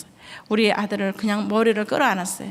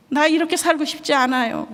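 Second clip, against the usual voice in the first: put-on high tearful "나 이렇게 살고 싶지 않아요" from a crying child; sobbing boy; 6 semitones higher than usual. Crying son telling his father, tearful and high. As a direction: pitch it up like a weeping son. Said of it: "흐느껴 우는 거예요".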